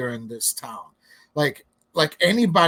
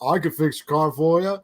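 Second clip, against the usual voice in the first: mock Southern accent. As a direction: imitate a small-town Southern mechanic. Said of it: "he had a fucking Southern accent".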